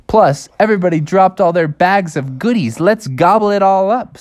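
rally the gang to a feast; excited cub. Acted. Cub proposing to eat dropped goodies.

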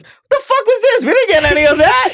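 high, incredulous squawk of an indignant crew member; mock outraged crew member. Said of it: "people who used to work on Scorpion King was like".

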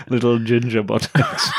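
cracking up while talking; laughing. Real, not acted. Co-host jokes about the runner's buttocks, laughing. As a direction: squeeze the words out through laughter.

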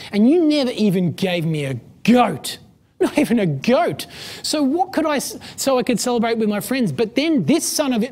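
bitter son listing his years of slaving; resentful older brother. Retold or imitated. Older son complains to his father, indignant and aggrieved. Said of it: "He responds and he says".

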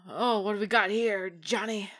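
loud, gruff TV cop, voice dropping to a whisper at the end; tough cop voice. Pretend. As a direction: ham up a cliché movie cop. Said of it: "give me your best cop voice".

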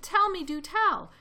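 high and loud plea; crying out. A narrator's reading. Elephant begging friends to answer, crying out. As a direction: beg loudly for an answer. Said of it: "cried the elephant".

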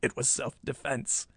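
sly villain's excuse. A narrator's reading. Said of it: "he said slyly".

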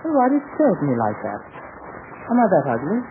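lightly put-on British accent; a touch of British officer; Johnny Samber. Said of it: "I want you to pretend to be Johnny Samber".

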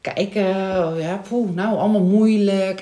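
mock reluctance, with a little huffed "poeh"; reluctant, unwelcoming. Parent imitates the telephonist calling back about an enrolment, reluctant. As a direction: imitate a put-upon telephonist. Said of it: "En dat ging op een toon".

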